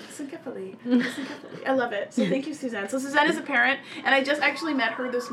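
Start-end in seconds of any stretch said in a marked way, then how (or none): 0.1-1.7 imitating a British accent. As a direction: repeat it in a playful UK accent. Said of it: "doesn't it sound like I'm from the U K?".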